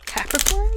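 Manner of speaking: CAPRICORN pitched very high with a rising question; exaggerated questioning intonation. Shown as a demonstration. Tarot reader mocking their own slip, CAPRICORN as a high rising question. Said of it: "said that like a question".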